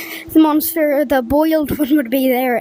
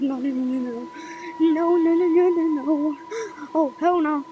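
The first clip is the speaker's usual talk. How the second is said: panicking gamer; 3 semitones higher than usual. Real, not acted. Fleeing the monster.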